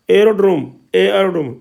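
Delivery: "एरोड्रोम" opening on a clear ए; initial ए sound. Shown as a demonstration. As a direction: model "एरोड्रोम", bringing out its first vowel. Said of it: "ए, ए उच्चारण आ गया ना". ("एरोड्रोम" में शुरू का ए साफ़)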